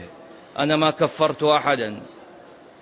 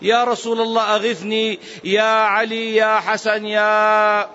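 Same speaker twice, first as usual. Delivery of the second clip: imitated supplicant; 3 semitones higher than usual. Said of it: "وهذا الذي يدعو غير الله".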